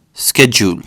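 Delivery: schedule with a hard sk sound, skedjool; American pronunciation. Shown as a demonstration. Teaching the US way of saying schedule, American pron. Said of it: "Americans pronounce it as".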